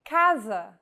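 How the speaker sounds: casa with a hard K sound; casa said the Portuguese way; C read as K. Shown as a demonstration. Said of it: "the letter C sounds like this".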